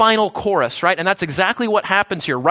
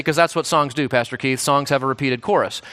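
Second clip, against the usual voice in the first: imitating a listener; 6 semitones lower than usual. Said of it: "You say".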